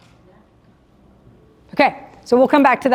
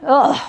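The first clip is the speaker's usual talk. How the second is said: drawn-out "ugh"; put-on reluctant groan; acted groan of dread. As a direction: groan in mock disgust. Acts out dread of cold calling.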